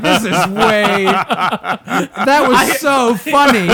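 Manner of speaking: loud, high, cracking up mid-sentence; real helpless laughing; laughing hard. Real, not acted. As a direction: stretch the words out through big laughter. Helpless laughter while retelling.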